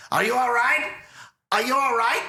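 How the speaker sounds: rushed-at-her high, urgent question; Loomis. Retold or imitated. Loomis asking a woman if she's okay, frantic impression. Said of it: "I'm gonna do my Loomis impression".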